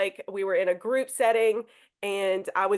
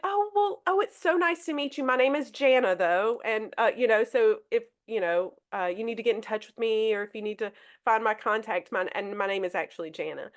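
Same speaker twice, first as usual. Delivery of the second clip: warm gentle correction. Shown as a demonstration. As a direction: kindly slip in that the name is Jana. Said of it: "correct gently and, and with a warm tone".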